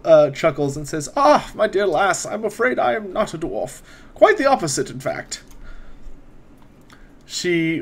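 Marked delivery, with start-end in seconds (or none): 1.1-5.4 put-on lightly raised, measured old wizard; a hint of a courteous court wizard, unhurried; wizard NPC voice.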